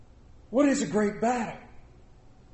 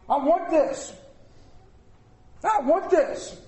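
I want this said high, a touch whiny; mock demanding believer; 9 semitones higher, slower than usual. Pastor mimics believers demanding from God, high whiny mock. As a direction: imitate a pushy child demanding things.

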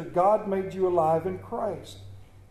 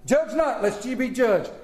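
popular misquote; 4 semitones higher than usual. Retold or imitated. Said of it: "the one we all use".

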